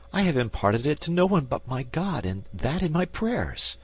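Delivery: queen astonished he knows her dream; amazed queen. Acted.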